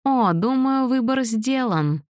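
high, slow gloating; amused villain. A narrator's reading. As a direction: savor the win with a chuckle in it. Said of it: "сказал Фальконе со смехом".

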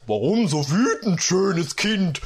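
a hint of a smooth seducer; lightly voiced flattering stranger; cooing creature. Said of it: "säuselte er".

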